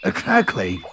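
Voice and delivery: bouncy cartoon tiger voice; lightly voiced bouncy tiger; Tigger voice. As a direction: play Tigger, cocky and breezy.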